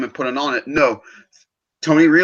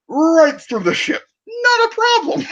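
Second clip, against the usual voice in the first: excited shout; 14 semitones higher than usual. Real, not acted. Fan shouting about Captain Marvel, excited yell. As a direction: shout it out, thrilled by the scene.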